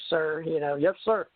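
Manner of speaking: normal talking voice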